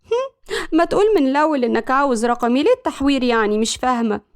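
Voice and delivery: mildly smug confidence; a touch of cocky knowingness; confident. Acted. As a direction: tease him with easy assurance. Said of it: "ملك بثقة قالت".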